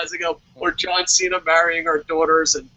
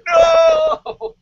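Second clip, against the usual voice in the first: very high, loud shriek; mock scream; 7 dB louder than usual. Answering the wrestler with a hammed-up shriek. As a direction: shriek it in fake horror. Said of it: "I'm like".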